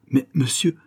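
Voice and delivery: a lightly voiced burst of joy and amazement; amazed gypsy woman, gently played; joyful astonishment. A narrator's reading. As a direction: pitch jumps up, stunned and delighted. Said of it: "au comble de la joie et de la stupeur".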